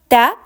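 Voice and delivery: Tè said with a short open e, no y-glide; Tè clipped and open, not like English tay; Italian vowel. Shown as a demonstration. Teacher shows how to say the Italian word. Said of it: "need to remove A and pronounce it like tè".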